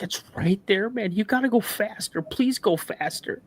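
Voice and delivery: retold panic. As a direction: imitate a panicking brother begging to hurry. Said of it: "he's just panicking".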